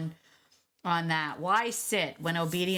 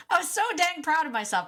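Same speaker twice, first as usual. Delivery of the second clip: laughing through it, much higher and louder; giggling pride, pitched way up; laughing, proud; 10 semitones higher, 4 dB louder than usual. Real, not acted. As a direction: crow about it with a laugh.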